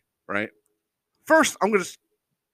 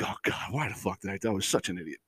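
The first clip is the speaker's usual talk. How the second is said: soft groaning self-reproach under the breath; cringing mutter; 7 semitones lower, 10 dB quieter, faster than usual. Retold or imitated. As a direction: cringe at your own memory, quietly.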